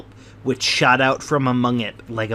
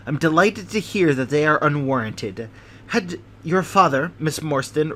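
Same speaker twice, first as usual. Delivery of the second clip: anxious hypochondriac; 3 semitones higher than usual. Acted. Sholto's voice held.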